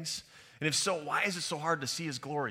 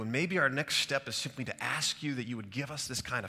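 spoken prayer; 4 dB louder than usual. Real, not acted. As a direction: address God earnestly, unhurried. Leads the congregation in prayer.

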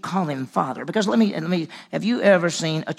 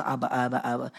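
put-on childlike calling; 3 semitones lower, 3 dB quieter than usual. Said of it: "when they're little".

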